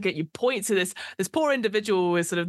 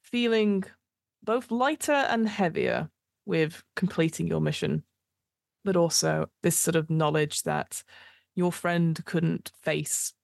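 game master narration. Acted. GM describing the streets of Sigil, measured narration. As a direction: paint the aftermath for the player.

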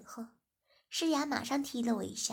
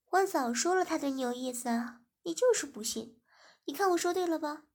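louder, higher scolding; jealous nagging; 4 semitones higher, 5 dB louder than usual. Acted. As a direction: let the jealousy spill over. 诗雅 quarrels jealously. (吃醋地大声数落)

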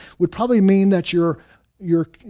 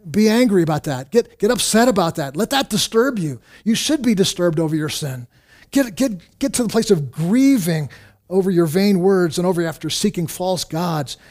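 urgent exhortation; 2 semitones higher, 3 dB louder than usual. Acted. Preacher voices psalmist's urgent command.

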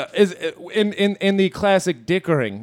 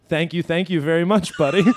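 put-on Indian accent. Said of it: "Indian subcontinent".

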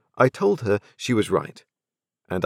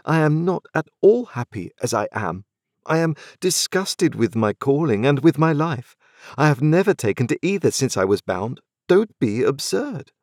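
impatient exclaim; 8 semitones higher than usual. A narrator's reading. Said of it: "I exclaimed impatiently".

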